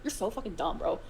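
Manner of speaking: ordinary delivery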